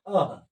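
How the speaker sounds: अह closed with an h sound; breathed h ending. Shown as a demonstration. Teacher showing how it is read, अह with final h. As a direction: say अह ending on a light h. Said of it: "इसमें ह का उच्चारण होता है".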